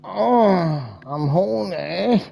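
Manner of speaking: drawn-out, rising moan; mock horny moan. Mocking someone who claims to be horny, drawn-out moan. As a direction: draw it out like a hammed-up groan of desire.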